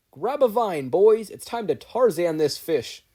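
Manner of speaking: loud, high battle call; rallying cry. A narrator's reading. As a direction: shout it to the boys with gusto.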